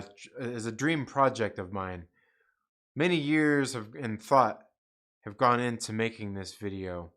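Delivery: hushed, breathy mock-solemn intro to a video; mock director's intro. Streamer pretends to introduce his video, mock-solemn whispered director's intro. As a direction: whisper it like a pompous filmmaker unveiling his dream project. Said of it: "be like".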